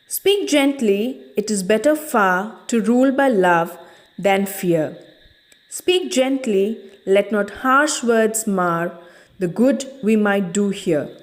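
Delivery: poem recitation. Acted. Teacher recites stanza one.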